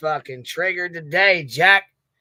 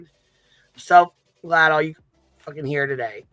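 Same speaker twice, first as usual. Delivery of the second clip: botched censor try; 3 dB louder than usual. Shown as a demonstration. Teasing viewers, fumbling the censored cuss word. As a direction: drag it then let the cuss word out. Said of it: "messed that up".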